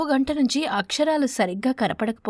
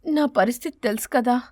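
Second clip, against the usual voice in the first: sad. Acted. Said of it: "బాధగా ముఖం పెట్టి".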